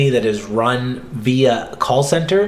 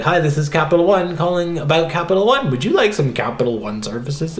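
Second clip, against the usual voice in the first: a light mock robotic caller, a touch higher; weird robot; 4 semitones higher than usual. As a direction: read the script like a nameless robot. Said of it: "you sound like this weird robot".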